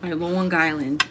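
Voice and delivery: "My Long Island" slow, with a Long Island accent, "Long" stretched. Shown as a demonstration. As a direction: drawl "Long Island" the New York way. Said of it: "she got a Boston accent".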